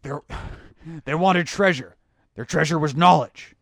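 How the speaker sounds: gruff movie-hero line delivery, leaning on knowledge; Harrison Ford voice. Pretend. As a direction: growl it like a weary adventurer hero. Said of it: "does that Harrison Ford voice".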